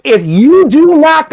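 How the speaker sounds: high, slow, put-upon official; exasperated tester. Retold or imitated. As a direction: play the fed-up drug tester. Tester's exasperated warning, acted.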